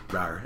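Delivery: low, soft token "rawr"; half-hearted roar. Retold or imitated. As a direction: barely attempt a lion's roar. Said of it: "she roars extremely loud like a lion".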